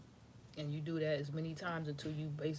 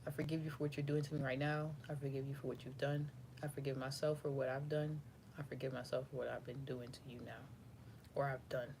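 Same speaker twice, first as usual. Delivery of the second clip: soft sincere forgiveness; 3 semitones lower, 4 dB quieter than usual. Shown as a demonstration. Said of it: "or you could say".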